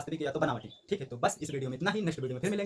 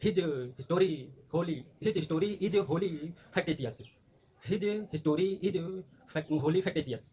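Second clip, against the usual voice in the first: slow dictation; 2 semitones higher, much slower than usual. Shown as a demonstration. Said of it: "English में बोलेंगे तो हो जाएगा".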